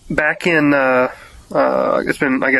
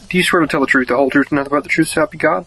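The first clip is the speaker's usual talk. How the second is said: quick, practiced oath recital; rote court oath; faster than usual. Real, not acted. Swearing in a witness.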